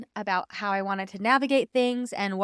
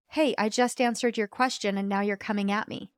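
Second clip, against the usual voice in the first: calm challenger energy. Retold or imitated. Husband calmly pointing out her reaction, even and unheated. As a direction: calmly hold up a mirror, no attack. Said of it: "calmly reflected back to me through that challenger energy".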